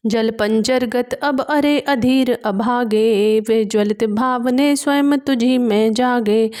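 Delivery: measured recital of classical verse; poem recitation. A narrator's reading. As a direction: declaim each verse line with gravity. Recites verse between explanations. (गंभीर काव्य पाठ)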